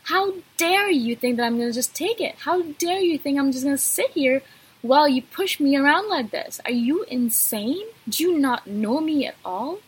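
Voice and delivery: retold outrage, emphatic but controlled; mildly indignant, retold reproach; hurt indignation. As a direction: voice an inner rebuke to someone who betrayed you. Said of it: "I'm thinking to myself".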